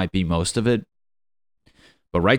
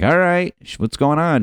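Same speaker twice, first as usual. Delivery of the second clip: much higher, louder, chirpy greeting; clueless boyfriend; 10 semitones higher, 5 dB louder than usual. Retold or imitated. Boyfriend answering the phone on stage, cheery mock greeting. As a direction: play the oblivious cheerful boyfriend. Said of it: "He's like".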